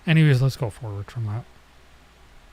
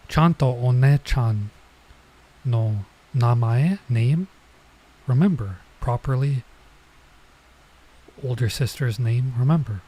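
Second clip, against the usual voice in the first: put-on mild scolding older girl; 4 dB louder than usual.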